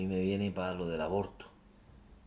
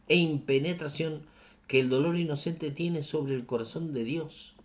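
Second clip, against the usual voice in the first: raised, declaimed reading voice; emphatic first reading; 6 semitones higher, 3 dB louder, slower than usual. Real, not acted. Preacher reads the Pope on innocent pain, forceful and declaimed. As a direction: read it out in one forceful sweep. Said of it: "Vamos a leerlo más despacito".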